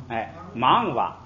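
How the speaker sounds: 忙哇 slow, with 哇 light and unstressed; neutral-tone 哇. Shown as a demonstration. Teacher modelling the neutral-tone reading slowly. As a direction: say 忙 fully and let 哇 fall away. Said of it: "把后边变成轻声的读法".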